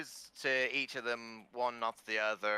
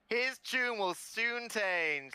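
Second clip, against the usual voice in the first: slow ominous aside; 10 semitones higher, much slower than usual. Acted.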